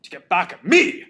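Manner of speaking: hammed-up grief turning to vengeance; Mel. Host re-enacts Mel's monologue over the body, overwrought grief. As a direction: melodramatic self-talk, swinging from loud wail to plea. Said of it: "Mel keeps talking to himself".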